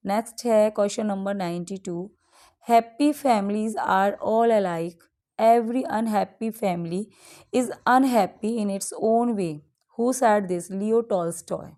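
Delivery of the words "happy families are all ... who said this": slow, deliberate reading of the poem lines; slow quiz reading. Acted. Teacher reads a quiz question to students, slow and deliberate. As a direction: read the question out slowly for dictation.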